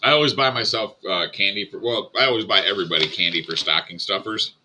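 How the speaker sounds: talking around sticky taffy; chewing taffy. Real, not acted. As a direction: speak while chewing toffee. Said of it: "I'm chewing on a taffy right now".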